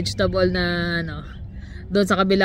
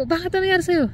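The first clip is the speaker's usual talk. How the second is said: alarmed question; 11 semitones higher, faster than usual. Retold or imitated. Alarmed reply to coworker's shout.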